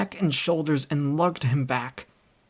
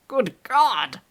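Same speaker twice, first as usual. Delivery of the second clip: shocked; 8 semitones higher, 5 dB louder than usual. A narrator's reading. Doctor shocked at the body.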